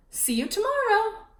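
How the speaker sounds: high, loud singsong taunt; loud high teasing goodbye; teasing brat. A narrator's reading. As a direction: taunt her cheerfully. Note from Wendell read.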